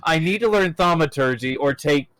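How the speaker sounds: deep puppet character voice; Doctor Buttons voice. Retold or imitated. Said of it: "Doctor Buttons sits there".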